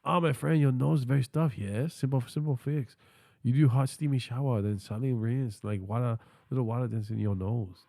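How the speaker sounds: put-on stereotypical Asian accent. AI assistant giving chat health tips for fun, stereotypical Asian accent. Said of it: "stereotypical Asian voice style for fun".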